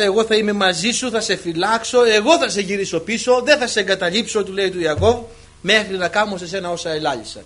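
loud, driving scriptural declamation; declaimed promise. Retold or imitated. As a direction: proclaim God's promise to Jacob forcefully. Declaims God's promise to Jacob.

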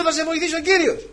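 high, loud quote through laughter; laughing at the old advice; laughing mock quote. Quoting brother's advice, laughing.

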